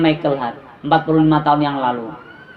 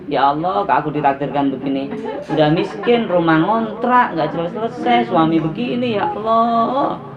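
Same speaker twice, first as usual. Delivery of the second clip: acted wail of self-pity, climbing as it goes; lamenting her fate. Wife bewailing poverty and her husband, mock lament. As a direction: moan the list of woes, stretching the last words. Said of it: "syukurnya meratapi nasib".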